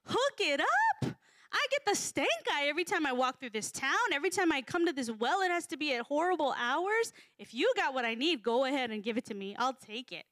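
brash and impatient, just hand it over; single-minded demand. Acted. Woman at the well demanding the water bluntly, pushy. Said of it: "is she being single-minded".

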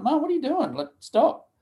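high, urgent worried call; retold alarmed plea. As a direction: reach for her with rising panic. Retold pleading with confused mum.

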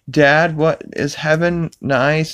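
Chris impression. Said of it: "Chris is like".

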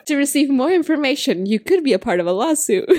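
mock late-night lawyer commercial; injury lawyer ad. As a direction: pitch it like a TV ad. Parody ad resumes after laugh.

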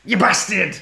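high screaming killer doll; Chucky scream. Retold or imitated. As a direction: shriek it like a possessed doll. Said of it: "goes full fucking Brad Chucky".

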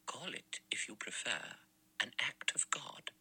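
soft, half-whispered pious certainty; quietly. A narrator's reading. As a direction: let it fall softly, like a verdict. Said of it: "Emily Brent said quietly".

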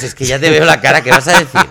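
breaking into laughter mid-question; can't get the words out for laughing. Real, not acted. Teasing friend, cracking up.

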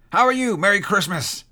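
high, loud, jubilant call; delighted greeting. A narrator's reading. Scrooge greets the Christmas turkey, jubilant. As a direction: hail it like a long-awaited friend.

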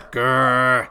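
mock cartoon growl of annoyance; imitated grumpy grr; frustrated growl.

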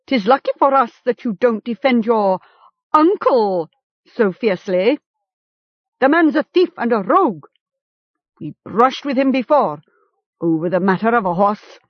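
a hint of the jeering chieftain; lightly voiced captor. A narrator's reading. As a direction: lightly sneer at the captive.

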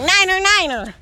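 high, mock pilot call-out; radio distress call. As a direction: call it urgently over an imagined radio.

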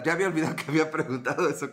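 fast, laughing through the words; chuckling while rushing the line. Real, not acted. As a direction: laugh it off quickly. Laughs at forgotten question.

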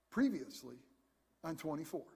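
low, dramatic "previously on" announcer voice; TV recap announcer. Retold or imitated. Preacher mimicking the TV show opener for the congregation, low dramatic announcer. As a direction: intone it like a TV show's recap opener. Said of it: "Remember how it always started?".

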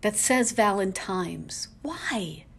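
Valentine's whispered slowly. Real, not acted. Vlogger whispers the pronunciation she hates. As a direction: breathe the wrong Valentine's. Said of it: "if I'm speaking to anyone".

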